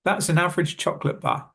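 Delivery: "average" as av-rij, "chocolate" as choc-lit; connected "average chocolate bar" with middle syllables missing; syllables dropped. Shown as a demonstration. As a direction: run "average chocolate" together in two beats each. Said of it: "To put them in a sentence together".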